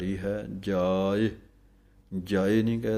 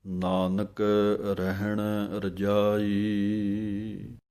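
slow chanted scripture, half sung; melodic recitation; much slower than usual. Acted. Teacher reciting the full verse for students, slow chant. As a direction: intone each word slowly and devoutly.

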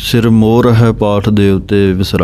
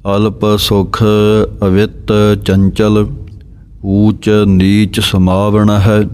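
measured, slow chant of the verse; slow Gurbani recitation; slower than usual. Shown as a demonstration. Teacher reciting the verse slowly for students to copy. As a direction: recite each word slowly and evenly. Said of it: "ਇਸੇ ਤਰ੍ਹਾਂ ਅਲਪ ਪਾਠ".

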